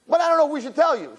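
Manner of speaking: high, fast, sing-song tease; giggly bridesmaid tease; teasing. Retold or imitated. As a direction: tease her with a high quick lilt.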